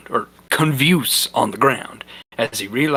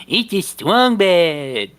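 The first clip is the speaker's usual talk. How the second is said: loud, higher and slow, booming; wrestler voice; 6 semitones higher, 5 dB louder, slower than usual. Acted. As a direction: proclaim it like a masked luchador.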